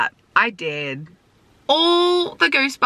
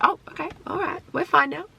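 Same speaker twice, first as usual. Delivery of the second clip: mock relief; 9 semitones higher, 5 dB quieter, faster than usual. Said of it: "Cinema that's like".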